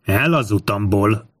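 understated narrated angry cry; angry shout. A narrator's reading. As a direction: order them aside, slowly and angrily. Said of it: "harsogta túl Tinkomius dühös kiáltása".

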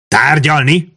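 high rising question; sharp questioning repeat; incredulous echo. A narrator's reading. Ban echoes the word, incredulous.

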